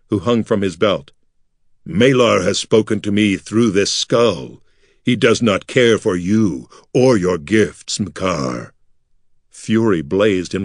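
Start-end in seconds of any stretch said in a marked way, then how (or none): 1.9-8.7 a slow, solemn oracle, lightly voiced; solemn masked voice. Artek posing as a prophet to the priest, slow solemn voice. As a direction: speak as if a god's mouthpiece. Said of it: "in a deep voice from behind his mask".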